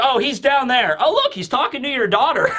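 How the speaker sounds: lightly acted pointing-out, on the edge of laughter; mock helpful informant. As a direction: imitate someone innocently tattling. Acted reply teasing Akainu about daughter.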